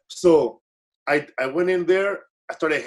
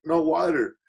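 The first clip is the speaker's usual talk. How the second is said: sarcastic. Retold or imitated.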